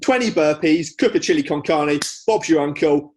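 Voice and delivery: lightly voiced fitness coach; a hint of a cheery trainer; Joe Wicks impression. Friend mimicking the workout coach, light Cockney patter. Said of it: "that's exactly Joe Wicks to me".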